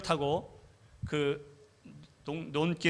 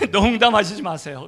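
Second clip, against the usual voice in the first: louder, incredulous protest; 7 dB louder than usual. Retold or imitated. Preacher telling God he can't be serious, loud. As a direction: push back in disbelief. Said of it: "그랬어요".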